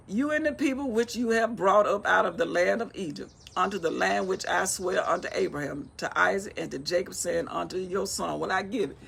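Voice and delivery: declaimed Bible verse; scripture reading. Acted. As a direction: read God's words out firmly.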